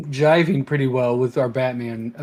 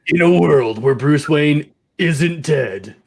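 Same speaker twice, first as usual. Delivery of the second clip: horror trailer voice; slower than usual. Acted. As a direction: announce it like a doom-laden trailer. Trailer parody, slow.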